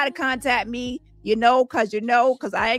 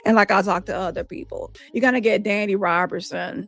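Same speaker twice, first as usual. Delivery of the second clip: lowered voice, mock-sweet promise; nice and sweet; 4 semitones lower than usual. Shown as a demonstration. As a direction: turn on a calm, nice act. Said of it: "I'm gonna be talking nice".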